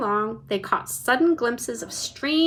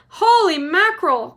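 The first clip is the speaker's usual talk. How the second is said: higher, louder shocked cry; cried out; 8 semitones higher, 8 dB louder than usual. A narrator's reading. Mister TV hearing of a collision, shocked cry. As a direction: blurt in shock. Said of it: "cried Mister T V".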